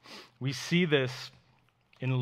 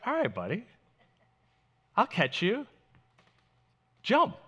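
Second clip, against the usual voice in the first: higher, coaxing dad voice; loving father tone; 8 semitones higher than usual. Retold or imitated. Dad to son on the counter, gentle encouragement. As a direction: gently coax a child to jump. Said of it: "This is Jesus's tone".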